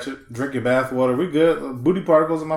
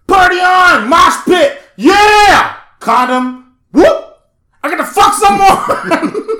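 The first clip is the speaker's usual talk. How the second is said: much higher, loud partying yells; wild concert shouting; 12 semitones higher, 9 dB louder, much slower than usual. Retold or imitated. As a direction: scream like a rowdy fan at a gig. Acting a concertgoer.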